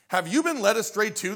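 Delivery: scornful, lifted question; mocking. Pharisee mocking the guards, scornful. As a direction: sneer the question. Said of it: "the Pharisee mocked".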